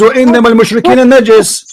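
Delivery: quick Arabic recitation of the verse; Quranic recitation. Retold or imitated. Host quoting the verse at his opponent, fast recitation. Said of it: "The Quran says".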